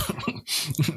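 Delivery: short scornful laugh; a mocking little laugh; sarcastic laugh. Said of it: "She kinda laughs".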